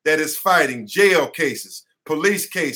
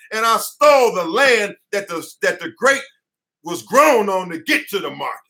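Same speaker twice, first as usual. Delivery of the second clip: emotional; 2 semitones higher than usual. Real, not acted. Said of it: "I'm sorry for getting so emotional".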